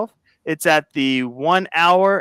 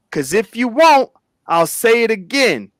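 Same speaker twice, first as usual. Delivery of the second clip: threatening tone; 3 semitones higher than usual. Shown as a demonstration. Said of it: "as if it's a threat".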